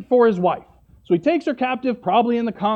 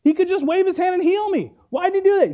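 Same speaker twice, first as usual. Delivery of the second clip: higher, indignant retold complaint; upset, mock tantrum; 4 semitones higher than usual. Preacher voicing Naaman refusing the Jordan dip, mock upset. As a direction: complain like a mildly hammed-up sulker. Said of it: "he gets so upset".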